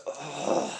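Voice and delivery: soft, helpless sigh-like groan; weary prayer groan. Acted. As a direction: groan as if out of words to pray. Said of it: "speak through your groans".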